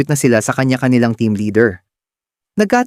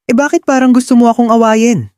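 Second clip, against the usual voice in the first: playful needling question, pitched higher; teasing; 9 semitones higher than usual. Acted. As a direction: poke at him with a little tease. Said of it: "Medyo may pang-aasar sa tono ng boses ko".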